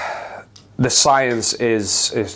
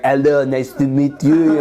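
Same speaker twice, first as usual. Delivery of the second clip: put-on posh Scottish accent; 3 semitones higher, 3 dB louder, slower than usual. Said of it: "the accent suddenly is like".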